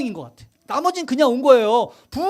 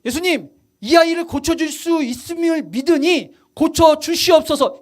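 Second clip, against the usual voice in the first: believing plea; 3 semitones higher, slower than usual. Shown as a demonstration. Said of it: "원래 뭐라고 얘기해야 돼요?".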